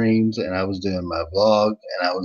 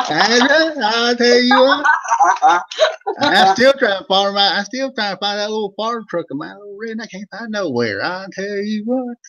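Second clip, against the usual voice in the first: put-on Old Vern voice; 11 semitones higher, 5 dB louder than usual. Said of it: "Old Vern Show".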